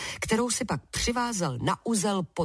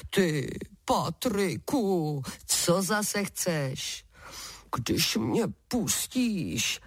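a lightly voiced giant bargaining for freedom; sly wind giant; much slower than usual. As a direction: tempt him slowly with buried gold.

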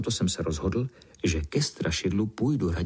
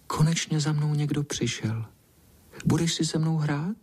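higher, gentle shy cat voice; soft shy voice; 7 semitones higher than usual. Acted. Lonely cat asks the boy to play, shyly. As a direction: ask timidly, hoping. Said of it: "tím hebkým hláskem plaše povídá".

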